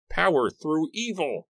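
high, fierce battle cry; impassioned high-pitched invocation; screamed incantation. A narrator's reading. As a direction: scream the spell's last words. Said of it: "he screamed".

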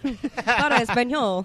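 slow recorded menu voice in Spanish; Spanish phone menu. Pretend. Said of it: "if she said it like in Spanish".

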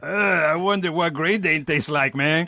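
put-on high, slow Mexican-accented stoner. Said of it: "Can you do a Mexican accent?".

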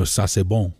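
Ça c'est bon with a French nasal bon; French phrase. Shown as a demonstration. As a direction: Cajun French "sa say BOHN", nasal at the end. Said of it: "you know".

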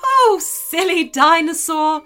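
chuckling river. Acted. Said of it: "chuckled the river".

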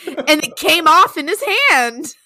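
big campfire-tale reveal; dramatic story emphasis. Acted. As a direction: punch up the spooky reveal through a laugh. Reading scary story, building jump line.

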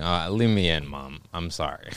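low, soft retold apology; understated contrition. Jailed son tells his mom, mildly contrite apology. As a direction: trail down into a quiet, resigned apology. Imagined apology to mother from jail.

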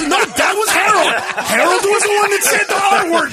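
high, laughing denial; mock protest. Shifting blame in mock quarrel.

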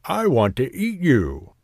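lightly voiced old man calling; a mild storybook cry of appetite. A narrator's reading. Old man calls after the gingerbread man, mild cry. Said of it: "cried the little old man".

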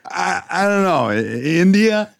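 high, coy fake uncertainty; playing dumb. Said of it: "He's like".

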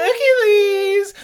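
high, slow drawn-out shout; shouting name. Retold or imitated. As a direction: call the name high and long.

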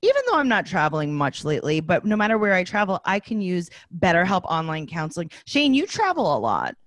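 upbeat sponsor read, lists rattled off. Acted. Host reads sponsor spot to listeners, upbeat ad read. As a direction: sell the service like a host ad spot.

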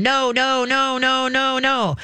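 mock a flustered owner chasing the dog; imitating frantic owner. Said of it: "They just run around going".

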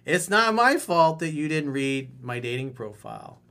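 light teasing tone, smiling; playful with a smile. Shown as a demonstration. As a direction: tease her gently with a smile. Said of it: "say it with a smile on your face".

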